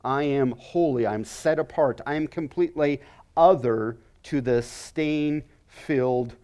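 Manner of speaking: weighty, emphatic declaration; authoritative. Acted. God declaring holiness to humanity, authoritative. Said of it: "exerts the authority of saying".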